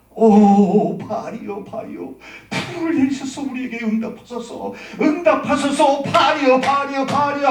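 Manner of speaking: loud, high cry to a god; frenzied invocation. Acted. Baal's prophets begging their god for fire, crying out loud. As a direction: chant it out like a crowd of pleading prophets. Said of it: "뛰면서 외칩니다".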